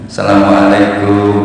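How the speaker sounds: low, slow, level sing-out salam; visitor's greeting. Shown as a demonstration. Guest calling a greeting on a visit, drawn-out salam. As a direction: draw the greeting out on a low, even note. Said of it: "Nanti kalau bertamu, beda lagi gayanya".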